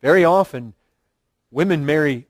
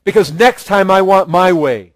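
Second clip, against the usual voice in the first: scheming bargaining; 2 semitones higher, 5 dB louder than usual. Retold or imitated. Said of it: "the bartering thing".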